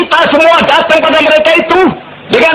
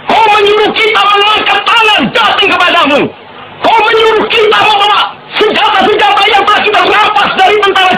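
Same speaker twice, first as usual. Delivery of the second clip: roaring rallying speech; 3 semitones higher than usual. Real, not acted. Defiant radio speech to British army.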